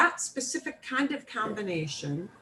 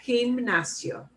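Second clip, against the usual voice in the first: Gimnasio as "kheem-NAH-syo", carefully; split into syllables; 4 semitones lower, 4 dB louder than usual. Shown as a demonstration. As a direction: separate the parts of Gimnasio for practice. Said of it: "split the word into syllables and".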